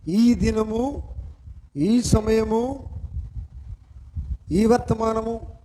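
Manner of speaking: each phrase drawn out, long pauses between; slow weighty pauses. Acted. Preacher to congregation, slow solemn pauses. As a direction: let every phrase hang in the air.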